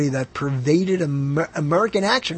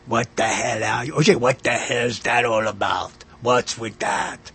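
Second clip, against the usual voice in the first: put-on slipping Arnold accent on new words; failed Arnold impression; 6 semitones lower than usual. Host failing to keep the Arnold voice on new lines. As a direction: try Arnold's voice on other words and lose it. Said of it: "I can't even do it".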